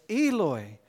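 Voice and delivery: an anguished loud cry of Eloi, Eloi. Acted. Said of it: "Jesus cried out in a loud voice".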